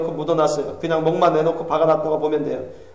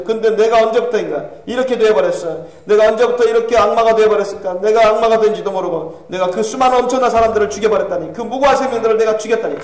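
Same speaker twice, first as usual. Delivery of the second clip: lightly voiced horrified self-reproach; a touch of anguished disbelief; Calvin in regret; 4 semitones higher, 4 dB louder than usual. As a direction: lament your own fall with rising force.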